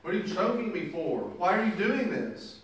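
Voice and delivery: a servant being choked, pleading frantically for time; pleading slave. Acted. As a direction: beg the man choking you to stop. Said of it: "He says".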